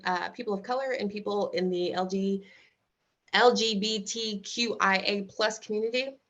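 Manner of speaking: talking around chewing gum; tongue-tied, gum in the mouth. Real, not acted. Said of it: "I'm sorry, I'm chewing gum, so I'm tongue-tied here".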